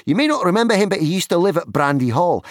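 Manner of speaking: very high, loud voice, speeding up; eager young hobbit. Acted. Pippin introducing Frodo to the farmer, eager hobbit voice. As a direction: introduce a friend in a high, quickening voice.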